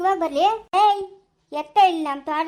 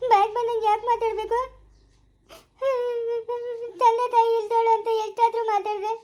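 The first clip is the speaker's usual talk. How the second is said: words pushed out through tears; crying complaint; 4 semitones higher than usual. Acted. Orphan girl crying to the man over the mother's insults. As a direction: plead through a sob, hurt.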